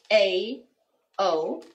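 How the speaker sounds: normal talking voice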